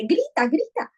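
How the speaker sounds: lightly voiced bear egging him to shout; bear urging. Bear telling the sad boy to scream, lightly voiced. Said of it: "Y él le dice".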